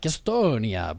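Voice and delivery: Estonia in a light Italian accent; Estonia, Italian vowels, falling. Shown as a demonstration. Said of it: "with, like, an Italian accent".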